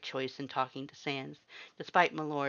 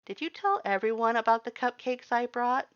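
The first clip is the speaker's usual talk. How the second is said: high, pointed accusation; accusing question; 10 semitones higher, 5 dB louder than usual. A narrator's reading. The human accuses Axe over the cupcakes, pointed and high. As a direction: catch him out, pitch up on cupcakes.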